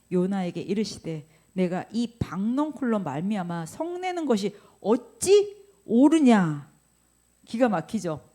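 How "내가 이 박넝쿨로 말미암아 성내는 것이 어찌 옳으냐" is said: God rebuking. Acted. God to Jonah, rising rebuke.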